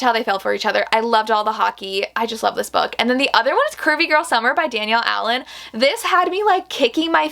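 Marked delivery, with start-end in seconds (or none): none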